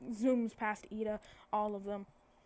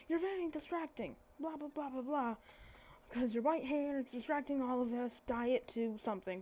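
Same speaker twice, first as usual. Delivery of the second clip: scolding; 3 semitones higher than usual. Retold or imitated. Acted scolding of a student.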